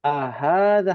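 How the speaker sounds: "Ahadza" with the ha clearly stretched long. Shown as a demonstration. Teacher reminding mothers the ha is long, stretched. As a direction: lengthen the ha of "Ahadza". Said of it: "haknya panjang".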